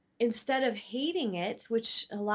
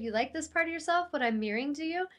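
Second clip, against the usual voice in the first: playful tease; 6 semitones higher, faster than usual. Retold or imitated. Repeating the tease to a friend.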